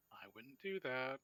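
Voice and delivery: light sing-song lilt on a warning; understated sing-song menace; vaguely sing-song. A narrator's reading. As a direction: say it with a slight teasing tune. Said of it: "vaguely sing-song".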